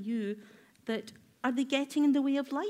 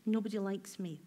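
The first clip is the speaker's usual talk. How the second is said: inner critic voice; 3 semitones lower, 5 dB quieter, faster than usual. Retold or imitated. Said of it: "Is that voice going".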